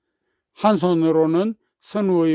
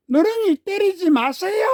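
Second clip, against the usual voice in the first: put-on pleading boy shout; 12 semitones higher than usual. A narrator's reading. Boy begs Jeong to stop.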